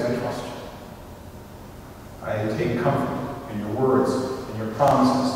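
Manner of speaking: soft, low, humble surrender; hushed acted trust. Child to dad after hearing his promises, quiet reverent trust. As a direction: say it gently, like a grateful prayer.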